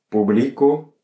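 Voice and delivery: publico with the weight on BLI; stress on middle syllable. Shown as a demonstration. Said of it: "ça correspond à la règle générale".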